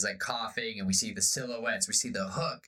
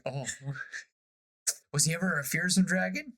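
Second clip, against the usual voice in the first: put-on laughing boy; 6 semitones higher than usual. Boy asks about the captain.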